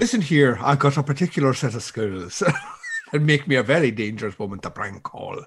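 mock action-hero threat speech; lightly voiced menacing action hero; Liam Neeson. Warning a prank caller, mock action-hero menace. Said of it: "You are doing the female Liam Neeson".

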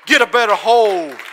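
full-force preached line; loud preaching. Acted. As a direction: get a better hold shouted from the chest. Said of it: "He says it like this".

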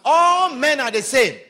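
mocking laugh. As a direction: laugh it off like a cynic. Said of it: "personal experience".

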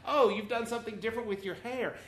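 bright polite tone; gently flattering; tactful compliment. Shown as a demonstration. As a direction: sweeten the hair comment. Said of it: "you say".

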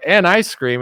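chirpy added aside; lightly voiced wife; mock first lady. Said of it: "she's like".

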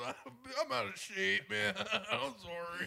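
slow, laughing pretend apology; playfully pitiful apologizing; mock sheepish apology. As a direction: drag out the sorry through a laugh. Playing the carried man apologizing.

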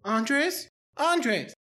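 high, frightened horror-movie heroine on the phone; mock scared phone answer. Spooked heroine picking up a stalker's call. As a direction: gasp it out like a stalked victim.

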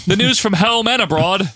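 mock newsreader in a shaky New Zealand accent; badly faked New Zealand accent. Host quoting Butch in the newsroom, bad New Zealand accent. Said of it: "That's not a good accent".

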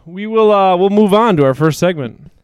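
breathless, out of breath; talking while still out of breath. Real, not acted. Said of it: "I'm more out of breath than I should be".

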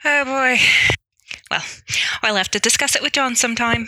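put-on Irish, reluctant; Irish accent. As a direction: dodge the invitation in an Irish accent. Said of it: "do my best Irish accent".

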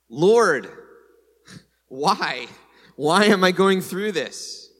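loud anguished plea to God; crying out. Acted. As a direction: call out to the Lord in pain. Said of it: "The lamenter cries out".

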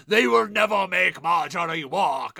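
loud mock insistence; retold shout. To the Tyrells, a defiant mock shout. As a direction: belt it out like an outraged queen. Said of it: "It's like".

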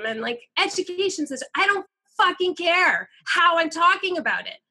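fed-up outburst, voice climbing; heated rant. Real, not acted. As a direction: push back hard, exasperated. Heated rant about tone policing.

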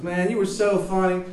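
high, loud, bad Baltimore accent; shitty Baltimore accent. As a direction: introduce yourself in a hammed-up Baltimore accent. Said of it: "shitty Baltimore accent".

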